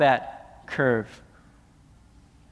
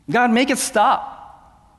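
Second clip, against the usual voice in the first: slow, higher pleading cry to God; desperate plea; 6 semitones higher, slower than usual. Acted. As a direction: beg God to end the storm. Believer begging in a trial.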